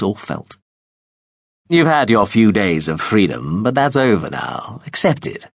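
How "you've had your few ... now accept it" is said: lightly voiced commanding man; a touch of cold authority, firm; Veppers voiced. Veppers telling the runaway girl her freedom is over, firm. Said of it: "Veppers' deep voice said, echoing".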